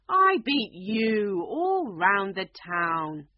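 slow, loud, growled boast; a lion roaring his victory; angry lion. A narrator's reading. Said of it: "said the lion angrily".

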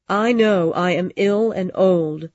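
a weak old woman, faintly voiced. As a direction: say it like a frail dying woman. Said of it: "she said in a weak voice".

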